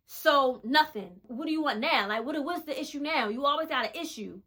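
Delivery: mock angry boyfriend snapping back; livid comeback. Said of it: "The man was livid".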